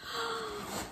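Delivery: quick breathless gasp of awe; sharp gasp. Real, not acted. Vlogger seeing the book for the first time, delighted gasp. Unboxing reveal.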